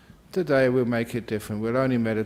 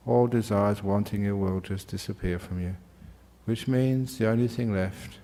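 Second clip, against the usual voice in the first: calm, measured meditation teacher; guided meditation. Acted. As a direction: guide them gently into stillness. Leads meditation instruction.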